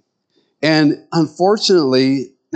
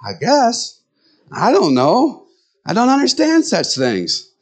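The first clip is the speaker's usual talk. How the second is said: dopey man; 9 semitones higher than usual. Retold or imitated. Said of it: "And men go".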